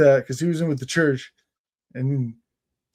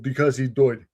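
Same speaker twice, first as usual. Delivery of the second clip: lightly done English "doyed"; a hint of the guide's English accent; tour guide's English accent. How every tour story ended, light English accent. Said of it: "every story ended with".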